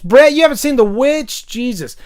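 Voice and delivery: can't believe he hasn't seen it; surprised disbelief. Real, not acted. The host, reacting to Brett's chat comment, in incredulous surprise.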